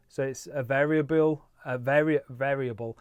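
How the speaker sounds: stumbling over the word with loose teeth; loose dentures. Real, not acted. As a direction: mouth not quite working, tripping on variable. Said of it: "Put my teeth back in".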